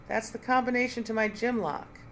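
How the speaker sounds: a stunned, rising outcry; agitated cry. Acted. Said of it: "Nina cried".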